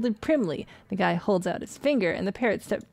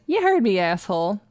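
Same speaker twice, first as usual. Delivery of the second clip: rude parrot; 3 dB louder than usual. Acted. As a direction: sneer it like a foul bird. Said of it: "Parrot says".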